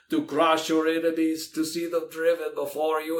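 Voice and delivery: a hint of mock-heroic barbarian boast; Conan's answer. Dad retelling a movie line to his kids, lightly hammed-up barbarian. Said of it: "And Conan would answer".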